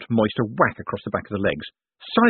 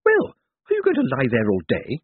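put-on old woman's sharp snap, pitched up; snappish old lady; 4 semitones higher than usual. A narrator's reading. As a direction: snap impatiently as an elderly lady. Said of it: "she snapped".

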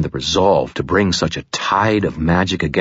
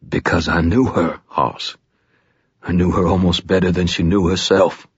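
harsh croak. Acted. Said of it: "in a harsh croak".

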